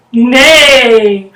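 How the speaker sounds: loud drawn-out neigh; horse neigh. Shown as a demonstration. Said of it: "And the horse says".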